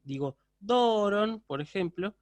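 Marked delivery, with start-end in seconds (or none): 0.6-1.4 DORON drawn out slowly, raised in pitch on the accented first syllable; circumflex accent demo. Shown as a demonstration. Teacher showing students a tone that rises and descends, DORON slow and drawn out. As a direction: stretch the first syllable of DORON over two beats, up then down. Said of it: "un tiempo para elevar y un tiempo para descender".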